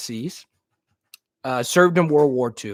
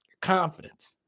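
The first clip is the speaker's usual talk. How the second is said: whisper; 4 semitones higher than usual. Real, not acted. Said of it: "That's all that matters".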